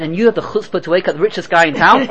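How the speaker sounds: indignant retort said through laughter; laughing punchline. Acted. Rich man scolding his friend for waking him, laughing.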